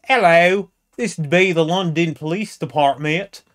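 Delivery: a lightly put-on London desk officer answering the phone; police phone operator. A desk officer answering a missing persons call, in a lightly put-on official voice. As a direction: pick up the call as a stiff police operator, slightly affected.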